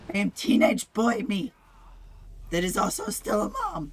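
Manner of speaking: dust-roughened hoarse voice; rough throat from breathing dust. Real, not acted. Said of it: "her voice is having some issues".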